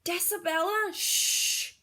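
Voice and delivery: a hint of a hushing adult; lightly voiced scold, half whispered; hushing grown-up. Librarian scolding the loud girl, mild hush.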